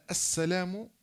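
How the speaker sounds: "السلام" left hanging on a rise, then silence; "السلام" cut off from the rest of the greeting; pause after the word. Shown as a demonstration. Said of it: "وسكت".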